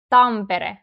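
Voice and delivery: "Tampere" with a brief tapped r; weaker R. Shown as a demonstration. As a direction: flick the r lightly in "Tampere". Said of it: "R in Tampere sounds weaker".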